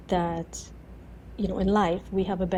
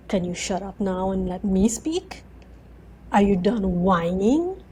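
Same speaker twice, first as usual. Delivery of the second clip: imitating a dry, patient telling-off; mildly sarcastic, spaced-out questions. Jesus teasing a whining friend, lightly sarcastic. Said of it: "real sense of humor and sarcasm in him".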